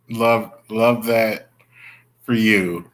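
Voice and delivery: slow, tight-lipped mock compliment through clenched teeth; jealous through the teeth. Shown as a demonstration. Jealous of a viewer's warm weather, gritted-teeth compliment. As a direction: grit the teeth and force out the compliment. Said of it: "I'm talking through my teeth".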